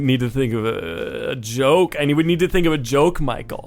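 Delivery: fortune teller voice. Retold or imitated. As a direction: ham up a spooky fortune teller. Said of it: "his weird, funky fortune teller persona".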